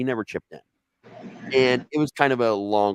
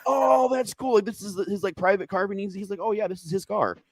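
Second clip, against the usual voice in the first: pitched way up, dazed and innocent; high stoned voice; 10 semitones higher than usual. Retold or imitated. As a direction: ask it in a high, spaced-out voice. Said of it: "And I'm like".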